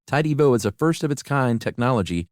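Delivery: lively, polished host-read commercial; podcast ad read. Acted. Host tells everybody about a laundry product, upbeat ad read. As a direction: pitch the product to listeners with upbeat emphasis. Reads a sponsor ad.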